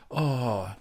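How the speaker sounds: high, loud, polite Samoan bouncer; Samoan bouncer accent. Retold or imitated. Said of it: "it's the accent of bouncers, like, some, Samoan bouncers".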